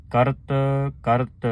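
ਕਰਤ ਕਰਤ recited with a pause after each ਕਰਤ; pause after karat. Shown as a demonstration. Teacher showing the sangat where to pause on ਕਰਤ ਕਰਤ. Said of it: "ਇੱਥੇ ਵਿਸਰਾਮ ਲਾਉਣਾ ਹੈ".

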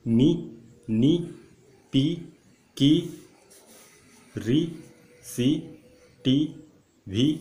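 each syllable projected on its own; loud teacher's drill, evenly spaced; loud pronunciation drill. Shown as a demonstration. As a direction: belt them out for students to copy. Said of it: "जोर से pronounce करिए।".

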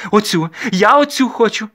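high, loud, ringing voice; ringing girlish demand. A narrator's reading. Young lady picking a servant girl, ringing and insistent. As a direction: call out a spoiled young lady's demand. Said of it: "дзвінко каже панночка".

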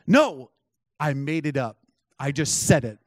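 short retold statements with a firm opening; matter-of-fact admission. Prophet answering his startled guest, matter-of-fact. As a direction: state it simply, as settled fact. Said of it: "That's how he said it".

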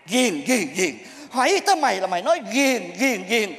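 low, disgusted repeating of an excuse; mocking echo. Master parrots pupil's excuse for drinking, mocking echo. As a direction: throw the excuse back with scorn.

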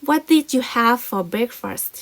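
very slow, careful question; slow model reading. Shown as a demonstration. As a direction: read the question slowly to learners. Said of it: "เห็นไหม".

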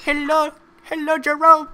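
high, put-on girlfriend voice; Jasmine impression. Mimicking the voice heard in the background, high mock girlfriend voice. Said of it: "I kept hearing this in the background".

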